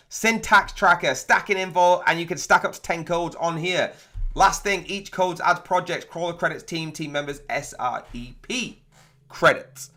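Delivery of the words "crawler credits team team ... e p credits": breathless, trailing off quietly; running out of air at the end; out of breath. Real, not acted. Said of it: "I'm out of breath".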